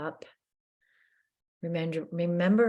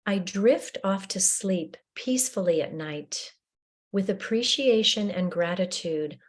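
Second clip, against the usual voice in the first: affirmation reading. Shown as a demonstration. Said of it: "read your affirmations".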